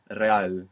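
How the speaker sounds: Real with a rolled R, re-AL; rolling R. Shown as a demonstration. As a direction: trill the R in Real. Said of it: "you might hear it like a rolling R".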